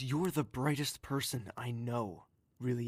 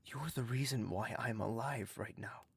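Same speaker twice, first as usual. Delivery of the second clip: tender whisper; 4 dB quieter than usual. Acted. Tender comfort to grieving friend.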